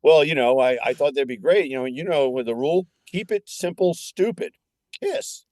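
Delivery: high, pumped-up coach; hyped coach voice. Retold or imitated. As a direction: deliver it like a fired-up coach. Quoting the coach's speech.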